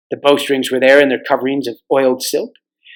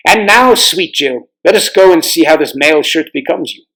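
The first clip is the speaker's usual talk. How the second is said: king Tyrion's voice. Acted. Old king shows the children foreign armor, lightly voiced. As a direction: read it like a proud old king showing his stores.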